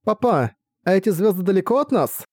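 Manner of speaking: put-on high twittering child question; chirping little girl. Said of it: "Она прощебетала".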